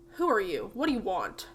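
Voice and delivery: put-on gruff old man. Old Jasper refuses to help a visitor, gruff. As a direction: turn the visitor away gruffly.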